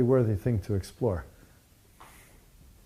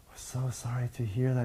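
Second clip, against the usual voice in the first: softer, mildly acted condolence; real concerned; 3 semitones higher, 5 dB quieter than usual. Teachers consoling the sponsor over her mother, concerned. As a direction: retell a concerned condolence, gently. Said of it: "they become real concerned".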